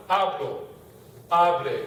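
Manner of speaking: "hablo, hable" with the opening a stressed; stress on first syllable. Shown as a demonstration. Teacher showing where conjugated stress moves, first syllables of "hablo, hable" stressed. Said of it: "now the stress falls on the a".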